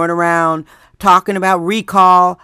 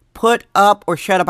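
hushed whisper, driving the point home. Retold or imitated. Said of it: "I'm like".

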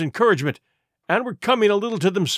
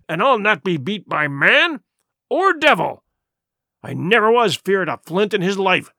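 defiant cry. Acted. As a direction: push through the fear with bluster. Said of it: "he cried".

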